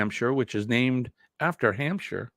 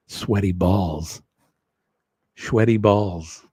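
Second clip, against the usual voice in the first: lightly mocked NPR host, low and measured; deadpan public-radio food segment parody; 4 semitones lower than usual. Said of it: "We'll be the N P R hosts".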